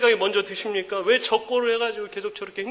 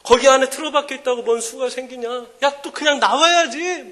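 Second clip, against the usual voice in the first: nagging mother; 3 semitones higher than usual. Retold or imitated. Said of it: "막 그러는 거예요".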